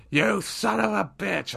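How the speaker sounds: mock yell. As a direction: burst out like the brother. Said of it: "my brother screaming the F-bomb".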